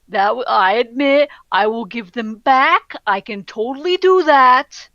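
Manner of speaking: stammering, eager to appease; mildly flustered placating; intimidated. Acted. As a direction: confess haltingly and give in. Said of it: "he is very obviously quite intimidated".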